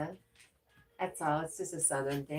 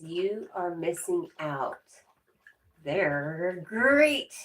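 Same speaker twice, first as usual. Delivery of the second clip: slow, then a loud cereal-mascot boom on "They're great"; a hammed-up cartoon tiger selling cereal; lightly voiced mascot, big finish; Tony Tiger voice; 6 dB louder, much slower than usual. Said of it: "in my Tony Tiger voice".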